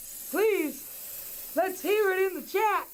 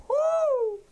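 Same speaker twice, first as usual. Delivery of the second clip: whoo; 11 semitones higher, 5 dB louder than usual. Real, not acted. Relief after telling scary story.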